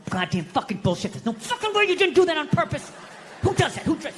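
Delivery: muttered curses climbing into an outraged high cry; retold angry rant. Man cursing to himself on a New York street, mock-outraged. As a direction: replay fuming to yourself, building to indignation. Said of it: "I'm feeling this anger".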